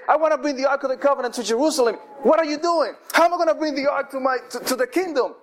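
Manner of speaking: mild, exasperated outcry to God; crying out. Acted. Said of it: "David cried out to God".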